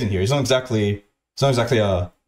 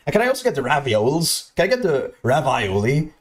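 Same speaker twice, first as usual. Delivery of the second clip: mock dumb voice; 3 semitones higher than usual. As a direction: act out a clueless diner ordering. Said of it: "He said it in a stupid way".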